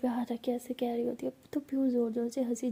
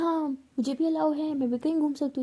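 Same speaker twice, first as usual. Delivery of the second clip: mocking echo; 3 semitones higher, 4 dB louder than usual. Pihu mocks Bhavna's line back at her, teasing. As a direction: throw her own words back at her, mockingly. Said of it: "तो पीहू कहती है".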